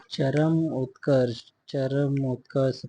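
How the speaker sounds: चरम उत्कर्ष slowly, as two separate words; careful word split. Shown as a demonstration. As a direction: draw out चरम, then उत्कर्ष. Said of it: "पूरा रा रहेगा". (चरम उत्कर्ष, धीरे-धीरे दो हिस्सों में)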